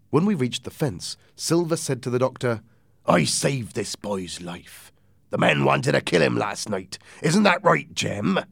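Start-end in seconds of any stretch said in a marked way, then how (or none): 3.1-8.4 pirate captain. Acted. Silver pleading his case to the doctor, mildly pointed. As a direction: start deliberate, rise toward the question.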